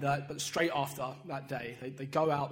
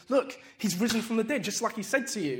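angel's announcement; 5 semitones higher, 6 dB louder than usual. Retold or imitated. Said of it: "he says to them".

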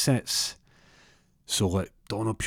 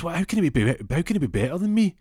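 high, stammering outrage; wounded pride, voice climbing; acted-out incredulous protest; indignant disbelief; 10 semitones higher, 3 dB louder than usual. Told rival dances better.

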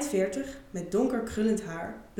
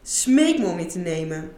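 insistent demand; 2 semitones lower, 5 dB louder than usual. Acted. Paul repeats his demand.

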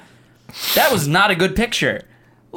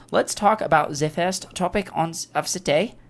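mock German accent; hammed-up German accent, like a TV announcer; 4 dB quieter than usual. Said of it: "I'm doing the best I can to make a cool German accent".

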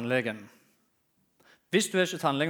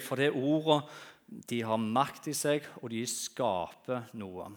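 ordinary delivery

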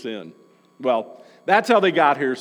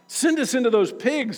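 mild begging; 7 semitones higher than usual. A narrator's reading. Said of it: "the spirits begged".

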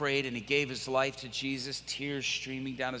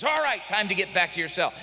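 guard's order; 3 semitones higher, 6 dB louder than usual. Retold or imitated. Guard orders prisoner back.

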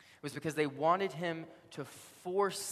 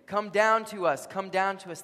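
high, loud crowd yell; imitated screaming; 6 semitones higher, 8 dB louder than usual. Crowd screams to Jesus on the cross, yelling. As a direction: holler up at him, imitating the mob. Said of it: "they were so busy screaming to him".

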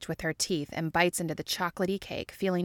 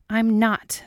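louder, higher protest; defensive denial; 4 semitones higher, 6 dB louder than usual. A narrator's reading. Scully denying jealousy to Mulder, defensive. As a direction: shoot it back defensively.

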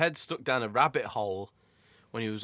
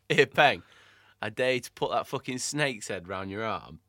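mock dare. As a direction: egg a mate on, half laughing. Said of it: "Let's do this one again".

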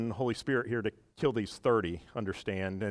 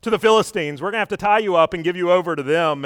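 mock stern announcement; 6 semitones higher, 8 dB louder, faster than usual. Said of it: "and they say".

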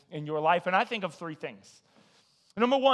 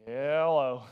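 imitating Scott's hello; 5 semitones lower than usual. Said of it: "he answers this way".

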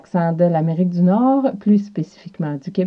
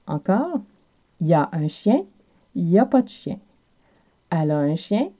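Quebec French accent. Shown as a demonstration. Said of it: "en québécois devient y a".

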